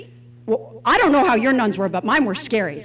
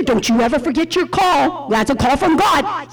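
stern nun; 2 semitones lower than usual. Retold or imitated. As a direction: lay down his calling like a strict nun. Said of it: "like, stern".

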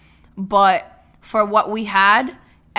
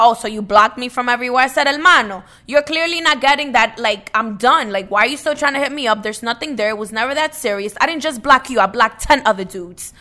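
retold telling-off; 2 semitones higher, 3 dB louder than usual. Retelling her telling off an ex.

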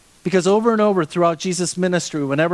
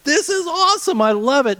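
mock enthusiasm; 9 semitones higher than usual. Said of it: "It's just like".

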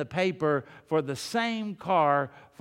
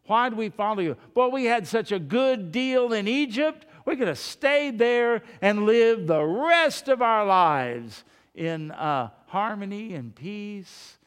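whining complaint; 3 semitones higher than usual. Acted. People longing for Egypt.

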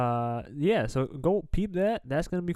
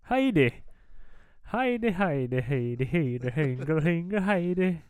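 put-on Irish accent; 3 semitones higher than usual. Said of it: "where we talk in accents".

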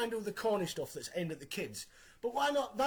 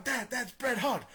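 mock excited little boy, a bit higher; slightly raised voice of an awestruck kid; 4 semitones higher, slower than usual. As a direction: point out your idol to dad, drawn out. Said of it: "He's like".

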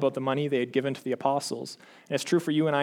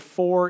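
"for" said higher and louder, set apart; stressed word; 4 semitones higher, 5 dB louder than usual. Shown as a demonstration. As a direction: lean hard on "for". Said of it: "pivot on that word".

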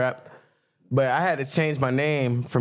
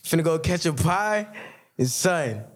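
playful New York impression, groping for the local words; joking put-on New York accent; mock New York accent. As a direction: ham up New York street slang. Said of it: "y'all wanna hear my New York".

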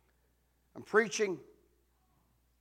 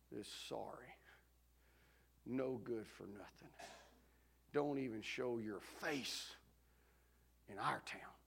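hushed, much softer gossiping mutter; murmured under the breath; 2 semitones lower, 5 dB quieter than usual. Retold or imitated. Church ladies muttering at the fallen pastor, hushed.

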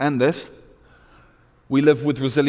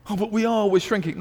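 high-pitched mock protest; imitating a timid complainer in a raised pitch; faint-hearted objector; 9 semitones higher than usual. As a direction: pipe up as a worried doubter.

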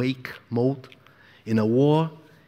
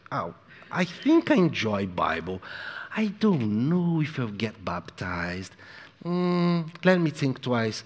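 mock lukewarm believer; 3 dB quieter than usual. Preacher mocking a member unsure about baptism, lazily hesitant. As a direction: shrug it off like a lukewarm churchgoer. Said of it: "You cannot just".

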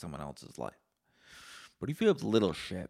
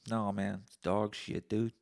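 put-on voice. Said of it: "I don't know why I'm doing that voice".

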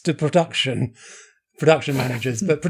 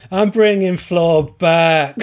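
slow declaration; 4 dB louder, much slower than usual. Real, not acted. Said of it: "never knew was due a comeback".

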